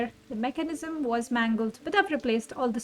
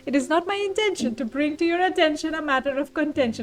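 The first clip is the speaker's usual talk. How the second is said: pompous wordplay; 2 semitones higher, 5 dB louder, faster than usual. Acted. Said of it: "stop this pompous nonsense".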